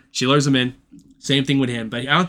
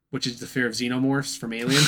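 laughing. Real, not acted. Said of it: "laughs at own joke".

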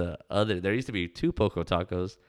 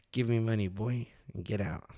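lightly voiced restaurant owner, higher at the start; half-successful impression, falling away at the end; Tola; 4 semitones higher than usual. Shown as a demonstration. Man fumbles the owner's voice, mock demanding. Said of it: "If y'all know what she sounds like".

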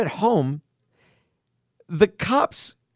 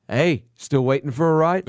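put-on Australian accent; 5 semitones lower than usual. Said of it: "I'm doing the fucking Australian accent".

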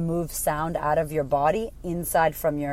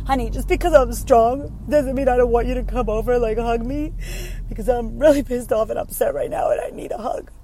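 pleading wife; 5 semitones higher than usual. Retold or imitated. Wife pleads with husband for a hug, higher and needy. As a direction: ask your husband for comfort in a raised, pleading voice. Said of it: "I've had to remind my husband".

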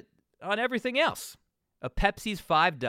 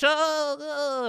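loud and pitched way up; shocked oh; 6 dB louder than usual. Real, not acted. The host shocked by the witch trials, loud and high. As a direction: gasp it out in disbelief.

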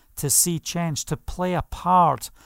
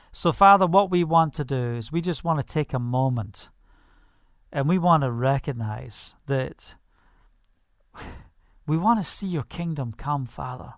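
a gentle prayer to the Father; closing prayer. Acted. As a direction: pray it out, turning to God.

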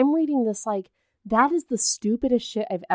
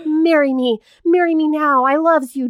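a lightly hammed-up clingy plea, a little louder; mock pleading girlfriend; 4 semitones higher, 4 dB louder than usual. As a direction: beg like a lovesick girlfriend. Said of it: "she's like".

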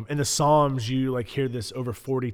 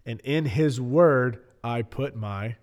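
dramatic reading. Acted. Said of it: "You were reading that so dramatically".

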